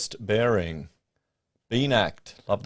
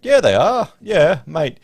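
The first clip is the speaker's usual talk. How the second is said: emphatic retort; 7 semitones higher, 8 dB louder, slower than usual. Real, not acted. Retorting to a chat comment.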